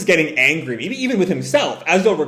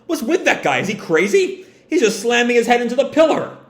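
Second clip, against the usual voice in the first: higher, fast anxious crewman; pirate crewman; 7 semitones higher, faster than usual. Acted. Crewmen question Killer, higher and fast. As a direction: rattle off worried questions. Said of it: "other parts of their crew".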